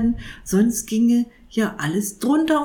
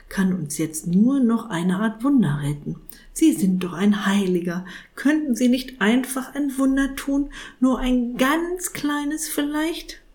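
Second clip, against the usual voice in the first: pleading cat; 4 semitones higher than usual. Acted. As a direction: wheedle a little miracle. Cat begs for miracle.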